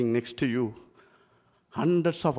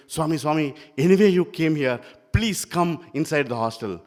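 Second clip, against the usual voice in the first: put-on eager boys begging, a bit louder; pleading boys; 4 semitones higher, 5 dB louder than usual. Boys begging Swami to enter.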